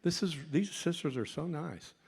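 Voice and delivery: mock his own naive delight at being fed; eager inner thought. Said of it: "I thought".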